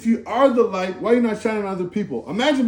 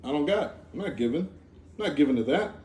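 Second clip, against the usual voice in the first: stingy refusal; 5 semitones lower, 6 dB quieter, faster than usual. Retold or imitated. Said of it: "And what do we say?".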